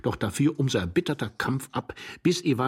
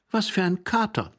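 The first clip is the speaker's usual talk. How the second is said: higher, slightly frightened question; startled, unsure; 11 semitones higher than usual. A narrator's reading. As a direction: ask it without your wits about you. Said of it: "erschrockenen Stimme".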